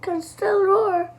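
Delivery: sunny, upbeat coaxing, slowing at the end; Mummy Pig brightly comforts George; bright and cheerful. Acted.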